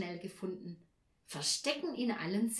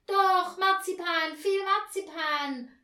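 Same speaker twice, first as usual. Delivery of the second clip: put-on loud, high childlike clamour; children calling out; 10 semitones higher, 9 dB louder, slower than usual. A narrator's reading. Two children demand marzipan from Mama, high loud cries. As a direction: cry it out high and insistent. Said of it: "riefen Anja und Peter".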